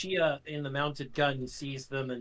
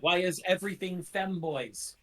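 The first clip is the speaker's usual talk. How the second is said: raised-pitch exasperated question; high, exasperated outcry; exasperated complaint; 5 semitones higher than usual. Real, not acted. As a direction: complain to the whole table. Exasperated at yet another femboy.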